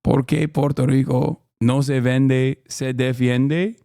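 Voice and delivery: slow, careful Spanish accent rising into a question; tentative Spanish accent. Shown as a demonstration. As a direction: try the Spanish line slowly, unsure, lifting the end. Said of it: "Am I saying it wrong?".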